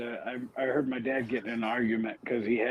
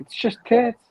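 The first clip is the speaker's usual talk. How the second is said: dad voice; 11 semitones higher, 6 dB louder than usual. Retold or imitated. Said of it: "he'd be like".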